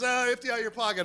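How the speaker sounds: casual, offhand mock robber; nonchalant. Robber to a girl running by, nonchalant. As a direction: toss the demand off lazily. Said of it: "all nonchalant".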